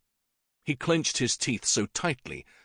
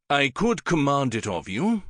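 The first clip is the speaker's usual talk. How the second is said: lightly voiced king, hardened; king warns Syn, hardened; a hint of a stern king; 5 semitones higher, 3 dB louder than usual. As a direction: press your authority.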